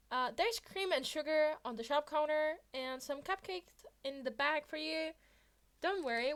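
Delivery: Midoriya's note to both heroes; cheerful note. Acted. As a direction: read it like a sunny kid.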